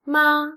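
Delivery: MA short and level, unaccented; "Ma" as a neutral-tone syllable. Shown as a demonstration. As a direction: say "Ma" evenly with no glide. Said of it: "is the neutral tone".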